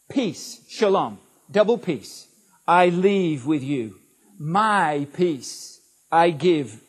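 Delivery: measured, emphatic Bible reading; scripture reading. A narrator's reading. Preacher reads Jesus' words of peace to the congregation, measured and emphatic.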